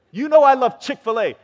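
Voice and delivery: high, very loud indignant complaint; upset protest. Acted. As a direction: act out an outraged kid complaining. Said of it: "they get upset at you".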